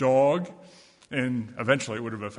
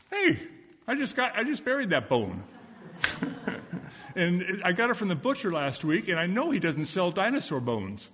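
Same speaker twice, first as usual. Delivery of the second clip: high, lively dog protest; indignant dog; 4 semitones higher than usual. Acted. Dog telling the girl the bone is his, high and indignant. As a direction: bark out a protest about your buried bone. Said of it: "a dog comes up and says".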